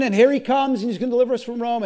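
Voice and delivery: a mock cheering crowd, rattling off the last part. Preacher voicing the Jerusalem crowd, mock excited cheer. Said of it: "the people are screaming".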